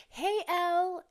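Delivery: loud, high-pitched yell; calling out. Retold or imitated. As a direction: girls yelling a greeting across the street. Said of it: "they yell out".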